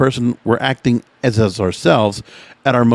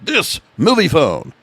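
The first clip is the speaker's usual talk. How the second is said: movie voiceover voice; 4 semitones higher, slower than usual. Shown as a demonstration. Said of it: "this is what I use for voiceovers".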